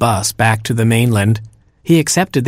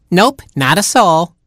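wicked stepmother; 7 semitones higher than usual. Acted. Stepsister denies.

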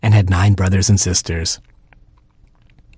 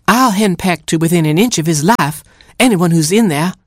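high, threatening mother hen; fierce, fussy hen warning; scolding hen; 10 semitones higher than usual. A narrator's reading. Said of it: "scolded Mama Hen".

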